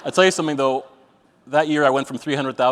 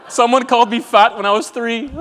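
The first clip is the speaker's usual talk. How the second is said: mock crying man; 9 semitones higher, 6 dB louder than usual.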